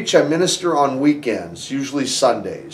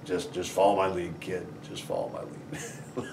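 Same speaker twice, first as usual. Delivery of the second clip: calm reassurance; 6 semitones lower, 15 dB quieter than usual. Retold or imitated. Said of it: "He was like".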